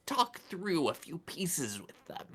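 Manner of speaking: hushed unvoiced whisper. Esther confiding to Franny in a whisper.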